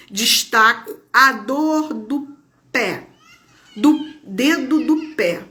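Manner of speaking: slow, measured poem reading; poem recitation. Acted. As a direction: read each line slowly like a poet. Reads a friend's poem aloud.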